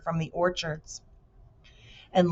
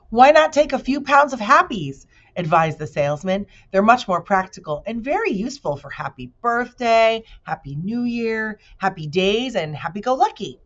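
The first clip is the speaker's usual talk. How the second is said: pushy salesman; 4 semitones higher, 5 dB louder than usual. Acted. Salesman pushing his wares.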